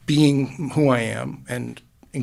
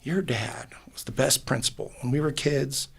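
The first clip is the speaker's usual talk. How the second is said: whisper; 7 dB quieter than usual. Retold or imitated. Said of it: "people who come up to me today and say".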